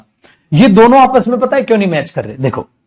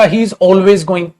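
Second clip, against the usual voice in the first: slow dictation; much slower than usual. Shown as a demonstration. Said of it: "अगर मैं लिख रहा हूं बेटा".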